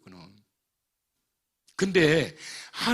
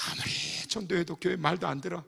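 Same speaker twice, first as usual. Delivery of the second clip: ordinary delivery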